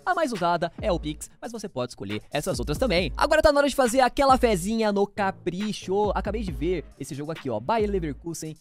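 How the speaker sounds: loud, punchy sponsor read. Acted. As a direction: sell it like a radio ad.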